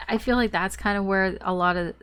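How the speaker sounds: blocked nose, talking through it; congested, nasal stuffy voice; stuffed nose. Real, not acted. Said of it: "My nose is so stuffed".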